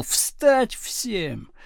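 emphatic, drawn-out command; commanding shout. A narrator's reading. Teacher to rioting class, commanding shout. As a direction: order the whole class up.

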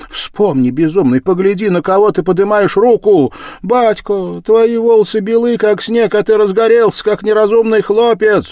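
high, loud desperate pleading; pleading cry. Acted. Wife begs husband not to fight her father, high pleading cry. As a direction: beg him to stop, voice climbing. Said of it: "закричала громко Катерина".

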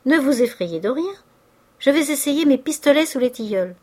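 easy, lifted, smiling tone; smiling reassurance. A narrator's reading. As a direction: reassure her lightly, as if it were nothing. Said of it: "dit-il en souriant".

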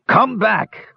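high raging shout; raging hobgoblin. Acted. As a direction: rage after him. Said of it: "raged Grog".

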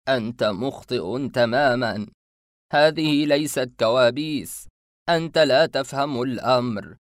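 slow, loud, firm correction; insistent masked man. Acted. Masked man corrects the boy, slow, loud and firm. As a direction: set him straight slowly and firmly.

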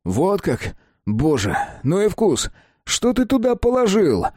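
rising shocked blurt; blurted disgust. A narrator's reading. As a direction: blurt it out, startled by the taste. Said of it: "Ляпаю я".

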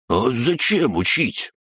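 high, slow sulky crab voice; offended crab. A narrator's reading. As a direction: pout like you've been cheated. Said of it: "Обиженно надулся Крабогном". (обиженный голос краба)

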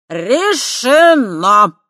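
put-on very slow, loud drunken decree. A narrator's reading. Drunk Voytek cutting into the argument. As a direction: slur out a verdict. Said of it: "нетрезво вмешался Войтек".

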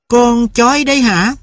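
a mother eyeing the dog coldly. A narrator's reading. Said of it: "bà mới lên tiếng hỏi".

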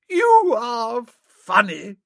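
put-on high, lilting society girl; fond girl teasing Bertie; Honoria's voice. A narrator's reading. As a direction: raise the pitch for the young lady.

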